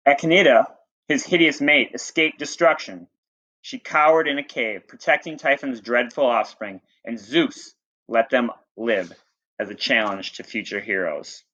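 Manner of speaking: reading a myth aloud to the class; teacher reading a storybook to students; story reading. Acted.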